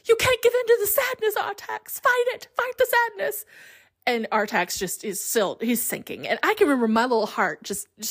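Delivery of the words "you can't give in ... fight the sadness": very high, hammed-up British pleading; Atreyu's faux British accent. Boy pulling his horse out, faux British pleading. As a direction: urge desperately in a squeaky mock British voice. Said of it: "faux British accent suddenly".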